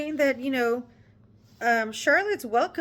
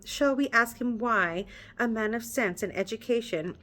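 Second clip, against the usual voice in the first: measured read-aloud narration; story narration. Acted. Reader narrating the novel to her viewers, measured storytelling.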